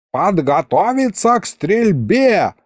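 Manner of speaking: high, drawn-out battle order; yelled command. A narrator's reading. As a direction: holler the order to the archers, stretching it. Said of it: "заорал князь". (громогласный приказ нараспев)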